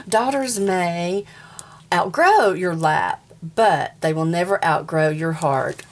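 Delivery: slow, tender read of the page; reading a sweet saying to the viewers, slow and tender; heartfelt reading. Shown as a demonstration. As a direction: read it slowly like a keepsake verse. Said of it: "This one is a special page".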